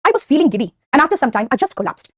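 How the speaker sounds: slow, spaced model sentence; teacher showing how to say it; slow example sentence. Shown as a demonstration. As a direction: say it slowly so they catch it. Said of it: "ऐसे कहूंगी मैं".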